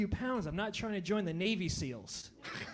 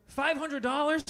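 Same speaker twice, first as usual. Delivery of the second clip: higher disbelieving question; incredulous echo; 4 semitones higher, 3 dB louder than usual. Acted. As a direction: repeat "Five hundred dollars?" in shock. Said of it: "He says it to me with a straight face".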